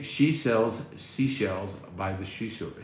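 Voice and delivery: tongue twister. Shown as a demonstration.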